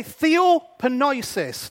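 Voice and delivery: "Theopenoisis" said slowly, syllable by syllable; teacher slowly modelling "Theopenoisis"; slow Greek pronunciation. Shown as a demonstration. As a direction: spell out "Theopenoisis" with your voice. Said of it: "the Greek word is".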